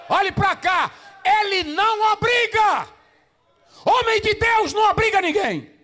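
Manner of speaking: high, loud preacher's shout; fiery preaching. Acted. Preacher driving the point home to pastors, shouting. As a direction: thunder it at the congregation.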